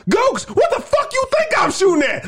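high, hammed-up snarling comeback; mock angry retort. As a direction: snap back like a frazzled soldier. Soldier snaps back at officer.

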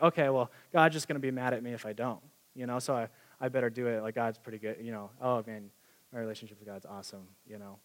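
a touch of guilty going-through-the-motions; mock guilty reluctance. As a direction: mumble it like a reluctant duty. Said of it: "out of guilt or fear".

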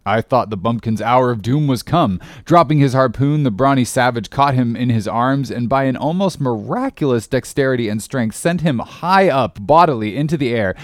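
plain reading voice

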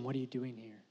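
low, very soft question; gentle whisper. Retold or imitated. God's voice to Elijah at the cave mouth, gently hushed. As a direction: drop right down to voice God's quiet question. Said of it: "when he heard the gentle whisper".

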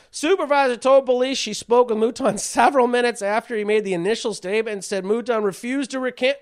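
reciting a news article, pitch lifted; news read. Real, not acted. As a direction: read the report aloud to the audience. Reads out a news report.

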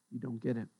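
near-whispered frustration; exasperated. Retold or imitated. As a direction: say it under your breath, worn out. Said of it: "a sigh of exasperation".

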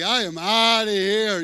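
loud, frantic yell to flee; panicked exit. Pretend. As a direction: shout it like you're running for your life. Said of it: "I'm like".

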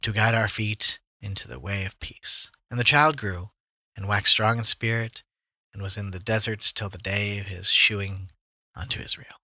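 slow, measured Bible reading; scripture reading. Acted. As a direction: read the verses slowly and evenly. Reads Luke aloud, slow.

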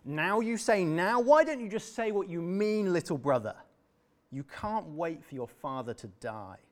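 put-on older brother raging at his brother's greed; rage. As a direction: blast him with outrage. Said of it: "flew into a rage".

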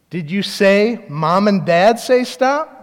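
slow, spelled-out question; deliberate parental questioning. Retold or imitated. Parent checking what the child told siblings, slow and deliberate. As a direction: stretch out the quoted order.

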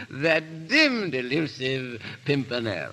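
slow, sing-song poem recital; drawn-out, self-pleased rhyme reading; reciting his verse. Acted. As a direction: recite it like a proud amateur poet. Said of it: "I want you to hear my verse".

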